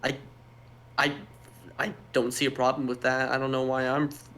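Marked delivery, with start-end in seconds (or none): 3.3-4.3 freaking out. Acted. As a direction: voice bursting louder at the end. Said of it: "freaking out right now".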